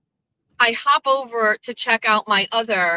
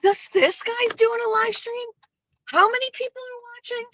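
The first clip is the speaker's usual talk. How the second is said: much higher, mocking disbelief; mock incredulous voice. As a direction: squeak out the question in mock amazement. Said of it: "and I was like".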